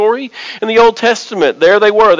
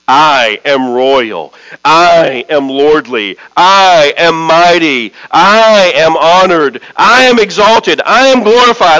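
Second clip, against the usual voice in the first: boastful ancient king; 2 semitones lower than usual. Acted. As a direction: proclaim each title grandly, building in pitch and pace. Boastful king's inscription declaimed, building.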